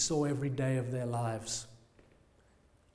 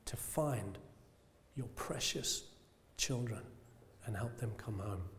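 earnest prayer; slower than usual. Acted. A preacher praying to God for the lost, slow and fading. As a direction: pray it slowly and sincerely, letting it sink to a hush. Prays aloud for a burden.

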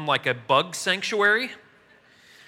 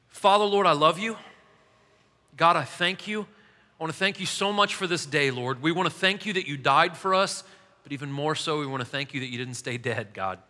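earnest prayer. Acted. Pastor praying over the congregation before the lesson, heartfelt prayer voice. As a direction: pour it out to God, earnestly.

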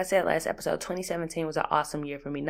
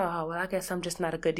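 quick, softer whiny excuse; tossing off a lazy excuse; mock excuse; 4 dB quieter, faster than usual. Mocking a bad dishwasher's excuse, quick and soft. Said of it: "There ain't no".

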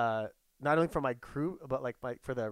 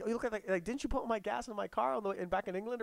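mock local; 7 semitones higher than usual. Voicing a local to the guys.

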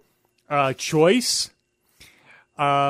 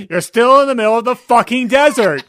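loud, higher-pitched movie quote; mock shout; 7 semitones higher, 7 dB louder than usual. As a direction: holler it across a classroom in jest. Imagined movie quote across the homeroom.

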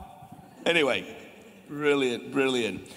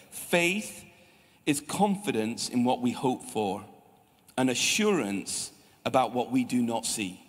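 scripture reading; 6 semitones lower than usual. Shown as a demonstration. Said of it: "puts it this way".

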